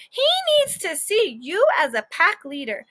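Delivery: advising teacher. Acted. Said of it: "said the teacher".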